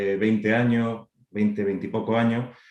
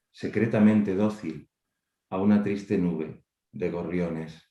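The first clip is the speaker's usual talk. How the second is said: measured poem recital with pauses between verses; poetry reading. Acted. Poet reading an early poem to an online audience, measured recital. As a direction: recite it verse by verse, unhurried, letting line endings drop. Reads own poem aloud.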